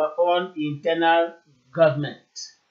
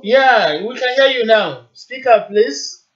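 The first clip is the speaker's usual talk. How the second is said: loud and higher, over a bad line; to someone hard of hearing; 4 semitones higher, 4 dB louder, slower than usual. Real, not acted. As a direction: project so the caller hears.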